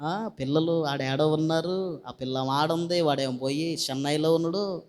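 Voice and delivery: low, soft grumbling lament; mock crying. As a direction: imitate someone weeping only out of duty. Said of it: "నేను అంటానేమో అని ఏడిస్తే". (మొక్కుబడి ఏడుపును అనుకరిస్తూ)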